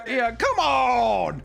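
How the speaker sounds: high, slow hammed-up yell; mock shout. Podcaster echoing the hero's cry, hammed-up yell. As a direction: drag out a fake yell.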